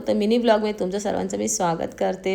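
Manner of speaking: hoarse, worn-out voice; voice giving out. Real, not acted. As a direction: speak through a hoarse throat. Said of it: "माझा आवाज थोडा बसलेला आहे".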